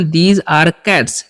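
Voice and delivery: drawn out for learners; slow teacher demo; very slow model sentence. Shown as a demonstration. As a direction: say it slowly like a teacher. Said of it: "teacher models an English sentence".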